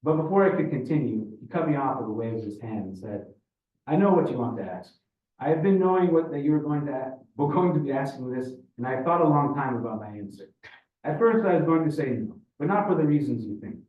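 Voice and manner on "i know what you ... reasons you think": Russian father giving his answer; Ivan, pronouncing his verdict. Acted. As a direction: hold forth with a Russian accent.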